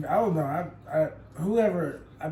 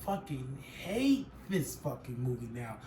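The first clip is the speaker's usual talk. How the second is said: softer, low grumble; muttered disgust; 3 semitones lower, 7 dB quieter than usual. Retold or imitated. Watching Rush Hour again, softer disgusted grumble. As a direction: grumble it under your breath. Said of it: "and I'm like".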